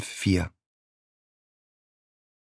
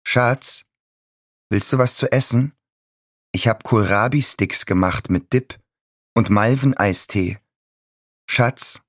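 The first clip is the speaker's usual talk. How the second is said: higher, syrupy doting mother; sugary fake mother; 4 semitones higher than usual. A narrator's reading. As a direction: coo it sweetly but falsely. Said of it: "Zuckrig, klebrig, scheinheilig".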